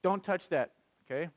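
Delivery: gentle calm command. Shown as a demonstration. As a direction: say it calmly, not harshly. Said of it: "speak gently and calmly".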